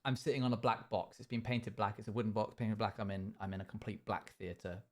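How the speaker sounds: low, subdued study-piece delivery; quiet A-level drama piece; drama monologue. Acted. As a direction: perform it as a hushed, earnest monologue. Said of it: "You can do it as a monologue".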